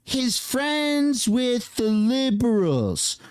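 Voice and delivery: lightly voiced dopey politician; mocking the politician. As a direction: drag it out like a dork. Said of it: "this dork just said".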